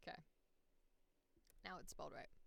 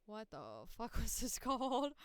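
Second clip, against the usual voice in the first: loud, baffled, rising into exasperation; baffled outburst; 3 semitones higher, 7 dB louder than usual. Real, not acted. Streamer forgetting the name, loud baffled outburst. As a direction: build louder through the question.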